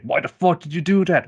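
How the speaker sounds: high-pitched indignant yell; mock outrage. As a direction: play the betrayed friend demanding answers. Friend outraged at pulled punch.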